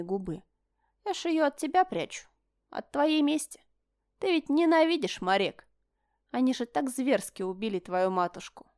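a hint of a sneering brother; sly taunting. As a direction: needle him with fake concern. Berton taunting.

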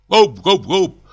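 merry horseman's cry; jolly whoop. A narrator's reading. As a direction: cheer him on like a rider. Jolly cry while joking.

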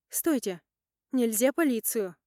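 a sharp alarmed outcry; sudden cry. Acted. Polina reading a text message, sudden alarmed outcry. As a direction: blurt it out in alarm. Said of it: "вскрикивает Полинка".

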